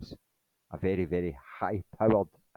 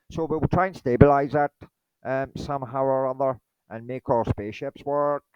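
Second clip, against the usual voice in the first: slightly raised, badly faked Irish voice; lightly hammed-up Irish accent; terrible Irish accent; 4 semitones higher than usual. Irish aliens puzzling over how to power spaceship, poor Irish accent. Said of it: "that was terrible Irish accent there".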